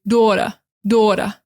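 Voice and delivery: New York "daughter" as "dawtuh"; New York accent. Shown as a demonstration. Teacher contrasting New York "daughter". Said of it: "New York is gonna say".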